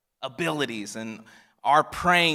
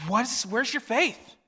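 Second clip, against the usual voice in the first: mock stern rebuke; 10 semitones higher, slower than usual. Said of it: "we think he's like".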